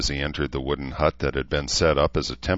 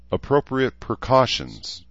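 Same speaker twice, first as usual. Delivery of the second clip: sighing repeat; 9 semitones higher, 4 dB louder, slower than usual. Acted. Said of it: "Danae said with another sigh".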